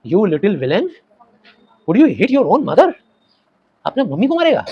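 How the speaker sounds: high, slow scandalized cry; mother shouting. Acted. Mother shouts at Fatik for hitting her, high and slow. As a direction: cry out in outrage.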